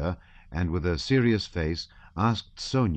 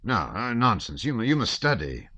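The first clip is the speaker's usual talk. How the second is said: father dismissing his son's plea, teasing; indulgent old father; 6 semitones higher, 3 dB louder than usual. Acted. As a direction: brush the boy off fondly. Count scolding son mildly.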